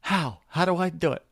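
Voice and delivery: hammed-up keen churchgoer; eager listener quote. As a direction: play the keen man who has no clue how. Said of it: "And you're like".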